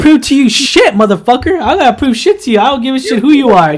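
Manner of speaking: indignant mock tell-off; defiant retort. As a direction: fire back like you refuse to prove anything. Acts out defiant retort to guys.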